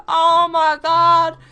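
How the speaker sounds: high, loud and slow; watching the fight break out, aghast; stunned gasp of words. Retold or imitated. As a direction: drag it out in shock.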